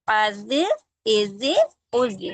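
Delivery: अज इज उज stretched very slowly; slow drill. Shown as a demonstration. Teacher drilling zoa vowel sounds. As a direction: drag each syllable out slowly. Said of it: "अब इसको".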